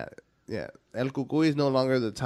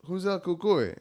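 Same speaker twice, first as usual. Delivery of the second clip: put-on kid questioning parents; 7 semitones higher than usual. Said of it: "I was like".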